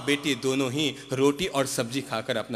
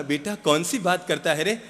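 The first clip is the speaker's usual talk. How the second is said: a hint of a poor mother's pleading, higher; mother helplessly asking her child; rising despair, mildly acted; 5 semitones higher than usual.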